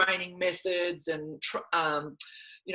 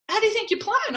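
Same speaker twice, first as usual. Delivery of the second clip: quoting dad; faster than usual. Retold or imitated. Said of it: "He goes".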